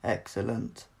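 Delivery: a hint of a cold robotic voice; flat machine approval; lightly voiced Cyber leader. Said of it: "said the cyber leader".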